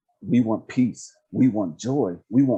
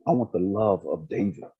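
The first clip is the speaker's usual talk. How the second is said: low, measured plea to God; retold prayer, pitched low; earnest prayer; 5 semitones lower than usual. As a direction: lay out the request to God in a lower voice. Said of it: "I was talking to God one day".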